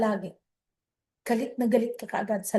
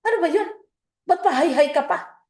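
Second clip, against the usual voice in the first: irritated reply; 2 semitones higher, faster than usual. Acted. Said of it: "So, nagagalit ka".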